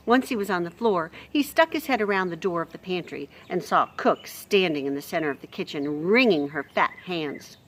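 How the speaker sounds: expressive storybook reading; lively read-aloud voice; story narration. A narrator's reading. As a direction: read it like a bedtime chapter.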